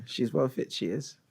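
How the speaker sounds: lightly put-on British accent; tentative go at a British accent; British accent attempt. Shown as a demonstration. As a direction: echo it in casual British English. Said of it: "say them in your best British accent".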